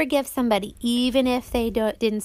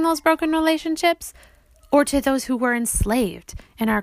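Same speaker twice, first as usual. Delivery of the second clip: reading a letter aloud. Acted. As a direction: read it as a letter to your daughter. Reads her letter to daughters.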